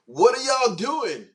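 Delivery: high, slow incredulous cry; real stunned what-are-you-doing. Real, not acted. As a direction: disbelief at the chat, loud and drawn out. Reacting to barbecue comments.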